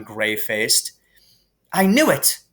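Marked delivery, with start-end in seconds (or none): 1.7-2.4 gasped. A narrator's reading. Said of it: "Hermione gasped".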